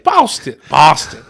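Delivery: hammed-up Boston accent on the city's name; badly faked Boston vowel in BOSTON; attempted Boston accent. Podcaster practising the city's name, shaky attempt at Boston accent. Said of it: "I can't do a Boston accent".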